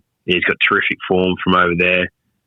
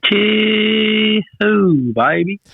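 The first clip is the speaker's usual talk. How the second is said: much higher, playful cheer; high excited echo; 14 semitones higher, much slower than usual. Retold or imitated. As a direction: echo it back in a squeaky cheer. Echoing the partner's big announcement.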